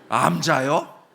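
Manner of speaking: shocked question. Retold or imitated. Greeter shocked by name.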